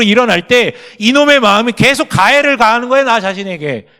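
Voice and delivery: loud, high, driving sermon climax; full-force preaching. Acted. Pastor urging the congregation to face God's love, loud fervent preaching. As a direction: preach it out, pressing every phrase.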